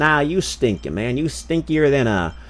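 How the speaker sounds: lightly voiced Southern teasing; Southern accent. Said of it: "Southern accent time".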